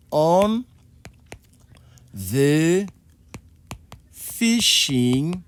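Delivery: "On... the... fishing" with long pauses between words; slow, spaced-out teaching delivery; word-by-word demonstration. Shown as a demonstration. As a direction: dictate "On the fishing" one word at a time.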